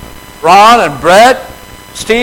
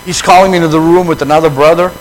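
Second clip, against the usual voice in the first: grumbling; 3 semitones lower, faster than usual. Retold or imitated. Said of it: "I would have attitude".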